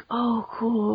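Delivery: imitating softly feigned nonchalance; playing it calm. Fans in the shop hiding their excitement, mock calm. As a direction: say it quietly, acting unimpressed. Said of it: "they try and act like, you know, like, calm".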